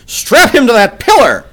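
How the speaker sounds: high, loud furious shriek; shrieked order. A narrator's reading. The jedak orders his guards, shrieking in rage. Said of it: "he shrieked".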